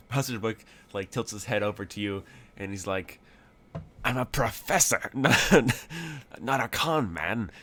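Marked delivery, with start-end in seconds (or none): 4.0-7.5 protesting, breaking into laughter; higher, mock-offended correction with a laugh; amused indignation. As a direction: insist on your dignity while cracking up. Indignant correction, cracking up midway.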